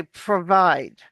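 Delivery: PROVIDE with a clear, flat American R; American R demo. Shown as a demonstration. Accent coach models the word for a student, American R in PROVIDE. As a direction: say "provide" with the tongue mid-mouth on the R. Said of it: "R to be correct".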